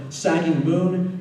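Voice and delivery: ordinary delivery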